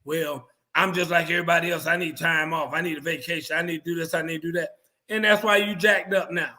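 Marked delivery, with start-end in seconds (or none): 0.0-4.7 low, quiet mock whine, a touch faster; mocking player's whine. Player mocked by the host, mock whining. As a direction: whine like a spoiled player asking for time off. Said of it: "You know what they say?".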